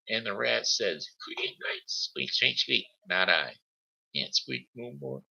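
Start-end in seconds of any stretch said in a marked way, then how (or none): 1.0-5.2 squeaky rat voice. Pretend. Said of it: "I can't do voices anymore".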